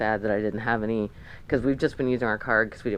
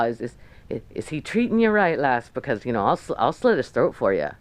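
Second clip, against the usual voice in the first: lightly put-on Scottish tough guy; badly faked Scottish accent, playing a protective local; horrible Scottish accent. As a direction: do a rough attempt at a Scottish accent, in character. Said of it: "sorry for the horrible Scottish accent".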